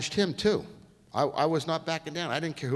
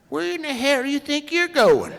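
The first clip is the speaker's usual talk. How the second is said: high, loud put-on shout through a laugh; mock yell; 13 semitones higher, 9 dB louder than usual. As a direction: yell it like the boss, half laughing. Imitating France yelling, laughing.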